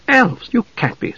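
high-pitched disbelieving echo on "Elves"; incredulous. Acted. Young mage doubts the knight's warning, high and incredulous.

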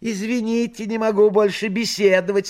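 very high talking cat; a polite cat taking its leave. Acted. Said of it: "сказал кот".

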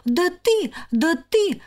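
high sputtering outrage; splutter, too angry to finish; choking with indignation. Acted. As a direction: sister sputtering at her sister. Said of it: "задохнулась от возмущения".

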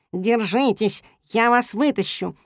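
shouting to the cat hanging below. A narrator's reading. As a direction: call down to keep them holding on. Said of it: "закричал он".

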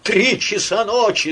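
high, loud tearful yell; wailing yell. A narrator's reading. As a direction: wail at the ceiling. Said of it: "завопил, плача, Василиса". (вопль сквозь плач)

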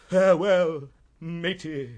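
hammy, grand actor's goodbye; slow, declaimed parting; theatrical farewell. Acted. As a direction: bid farewell like on stage.

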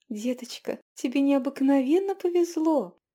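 rising to an excited cry; exclaiming. A narrator's reading. Innkeeper tells the girl her luck, excited exclaim. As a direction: exclaim the good news. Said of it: "воскликнула она".

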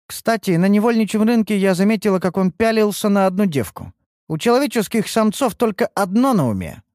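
high-pitched woman's character voice, disdainful; scornful female companion. Acted. Female companion reporting the lad's ogling at the slave market, scornful.

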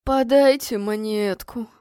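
slow, lightly bleated plea; a hint of goat voice; bleating beggar. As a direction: draw out the beggar's whine. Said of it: "заголосил козлиным голосом бродяга".

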